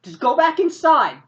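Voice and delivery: high, loud urgent ordering; acted agitated insistence. Carrie orders driver away, quarrel.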